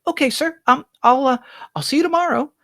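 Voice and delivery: bow and report to the master politely; eager-to-please housemaid; timid maid Bonnie. Acted.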